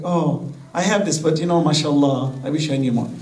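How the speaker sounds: low-pitched, modest admission; humble. Acted. Preacher voicing a second-stage learner to the congregation, gently humble. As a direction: lightly act a humbled learner. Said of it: "he says you become humble".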